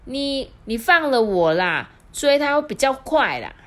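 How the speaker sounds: high, loud wheedling; pleading fox. Acted. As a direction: coax her into letting go.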